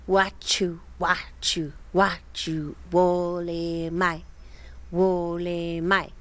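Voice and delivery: a hint of a low, slow, hacking growl; lightly growled Gollum-like voice. Reading the eerie cabin voice aloud, low slow growl. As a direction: drag it out slowly like a creature. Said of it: "growled, hacking sound".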